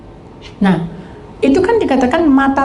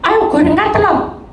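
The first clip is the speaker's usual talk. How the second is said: higher, slow demand to the wife; demanding husband; 8 semitones higher than usual. Retold or imitated. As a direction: order her to fry the egg. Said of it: "Biasanya gini".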